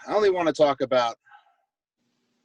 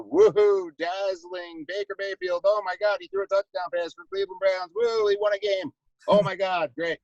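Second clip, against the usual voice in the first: sarcastic cheer; 5 semitones higher than usual. Acted. Sarcastic cheering about Mayfield.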